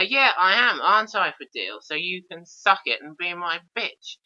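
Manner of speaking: hammed-up smug comeback; mock gloating. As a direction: play at rubbing it in, loud opening. Imagined gloating retort to rival.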